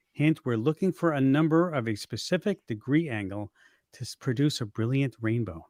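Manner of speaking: smooth on-air announcer read; radio voice. Acted. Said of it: "Let me get my radio voice on".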